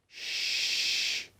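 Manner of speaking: whispered shh; shushing. Acted. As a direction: hush the others to listen. Listening for pursuers in dark.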